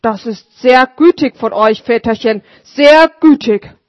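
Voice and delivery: put-on old street sweeper, moved; grateful old sweeper. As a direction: thank him humbly but heartily. Sweeper voiced in story.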